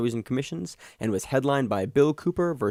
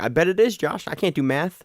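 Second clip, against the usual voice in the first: sarcastic; 5 semitones higher than usual. Retold or imitated. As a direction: play along sarcastically. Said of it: "I'm like".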